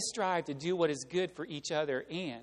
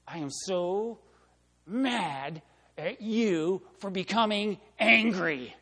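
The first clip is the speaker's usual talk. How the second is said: mock indignant; 3 semitones higher, 5 dB louder, slower than usual. Mock angry self quote.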